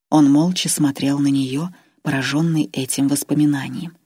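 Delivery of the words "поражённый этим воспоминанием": ordinary delivery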